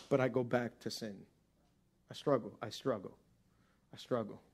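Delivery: soft, sinking, near-whisper repetition; quiet confession. Acted. Voicing Paul's confession.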